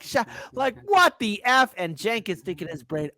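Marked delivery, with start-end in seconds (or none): 0.0-1.7 high-pitched mimicked outrage; mock disbelief. Host acts out Jimmy's reaction to Cenk, mock disbelief. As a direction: imitate someone stunned and lost for words.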